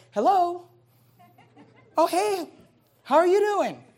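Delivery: high, loud, bright-sounding phone greeting; suddenly sweet hello to a caller; mock friendly phone voice. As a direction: switch into sugary nice for the caller.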